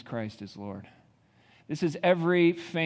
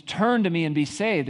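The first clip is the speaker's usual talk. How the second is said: louder, firmer invitation; God calling out; 4 semitones higher, 5 dB louder than usual. Acted. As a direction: lift it and call out to the crowd. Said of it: "And he says".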